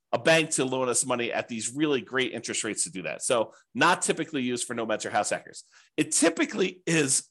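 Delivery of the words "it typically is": throat needs clearing; catching in the throat; frog in throat. Real, not acted. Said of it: "let me, uh, clear my throat one second".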